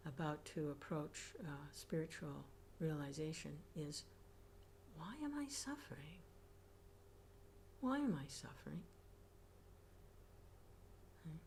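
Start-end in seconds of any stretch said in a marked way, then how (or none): 5.0-8.8 whisper. Acted.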